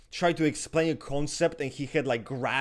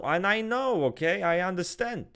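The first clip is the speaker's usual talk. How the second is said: usual speaking voice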